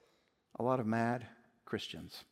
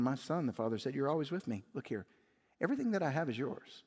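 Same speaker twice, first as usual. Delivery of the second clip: loving father; 5 dB quieter, faster than usual. Acted. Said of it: "lovingly respond".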